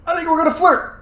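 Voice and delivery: very high, excited squeal of words; gleeful decision. Real, not acted. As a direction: announce it with giddy, high-pitched glee. Gleefully deciding on flirt option.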